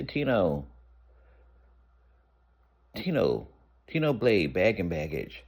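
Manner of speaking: steady officer's call over the speaker; imitating a guard on the intercom. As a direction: call the name out flatly like a jail announcement. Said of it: "there's an announcement over the intercom".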